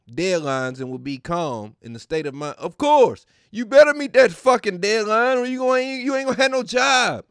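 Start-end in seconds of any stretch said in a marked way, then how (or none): 2.6-7.2 loud rant. Real, not acted. Ranting at the horoscope's logic.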